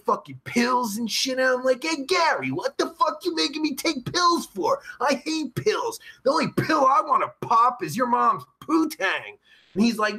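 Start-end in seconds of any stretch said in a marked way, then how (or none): 1.8-9.4 higher-pitched retold complaint; mock indignation. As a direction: act out a mild, indignant protest. Retold confrontation with Gary.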